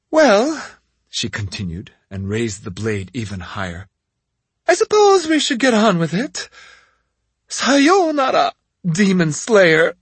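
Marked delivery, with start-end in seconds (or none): 0.1-0.5 high, slow, cruel witch voice; taunting witch. A narrator's reading. Witch resumes. 4.7-10.0 gloating witch. A narrator's reading. Witch's farewell before killing.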